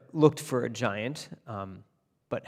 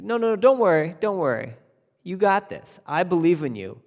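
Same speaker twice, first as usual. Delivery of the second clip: hearty king; 5 semitones higher, 5 dB louder than usual. Acted. King brushing off the tailor.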